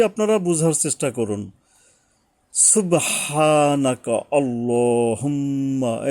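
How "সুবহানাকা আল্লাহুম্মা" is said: slow, drawn-out recited Subhanaka; slow recitation. Shown as a demonstration. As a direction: recite it slowly with nasal hold on humma. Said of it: "তো আমি একটু পড়ি". (ধীরে তেলাওয়াতের সুরে)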